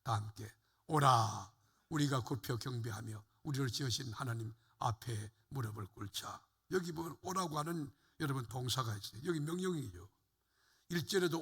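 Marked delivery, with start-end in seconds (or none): 0.9-6.4 low-pitched Bible verse reading, opening strongly; scripture read-aloud. Real, not acted. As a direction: lead the congregation through the verse. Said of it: "육 절 같이 읽어봐요".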